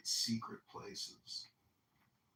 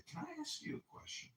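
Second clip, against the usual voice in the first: smooth pickup line; 8 dB quieter than usual. Shown as a demonstration. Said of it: "Just grab that hand and say".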